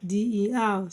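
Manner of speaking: letter groups with pauses, settling at the end; spelled by syllables. Shown as a demonstration. Teacher spelling salamander for learners, syllable by syllable. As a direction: spell in separated chunks, punching the lone A. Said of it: "Salamander divided into four syllables".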